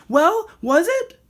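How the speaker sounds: high, loud and drawn out; eager shout. A narrator's reading. Rocket at the tree demanding the end, high and slow. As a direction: demand the answer, slowly and loudly.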